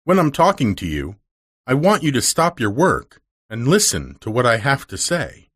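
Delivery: a hint of a stern lady scolding; lightly voiced severe mistress. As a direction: firmly lay down the rule to the maid. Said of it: "voice was very stern now".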